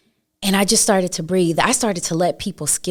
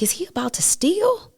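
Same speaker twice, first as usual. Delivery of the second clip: hushed, higher whisper of a worried thought; whispered inner thought; 12 semitones higher than usual. Retold or imitated. Mother retelling her suspicion of her son, whispered. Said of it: "I'm like".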